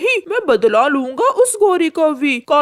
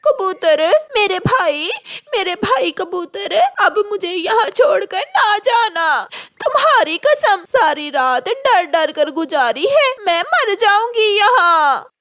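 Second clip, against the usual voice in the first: higher, sobbing plea; tearful pleading; 5 semitones higher than usual. Acted. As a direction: beg through tears not to be left. Trapped crow begs for rescue. (रोते हुए गिड़गिड़ाना)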